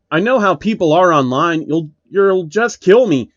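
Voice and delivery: only half a shout at the stranger. Acted. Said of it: "Phil shouted".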